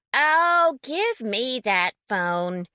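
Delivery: impatient second woman snatching the phone; commanding other woman. A narrator's reading. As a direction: grab the phone off her. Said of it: "another voice dictated".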